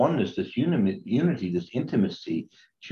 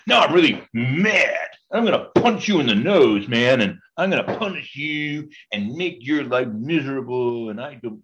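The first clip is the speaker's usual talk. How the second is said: a hammed-up furious God, louder and higher; mock angry God; 5 semitones higher, 3 dB louder than usual. Priest parodies a wrong idea of God, mock furious. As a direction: bluster like a cartoon angry deity. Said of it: "God says".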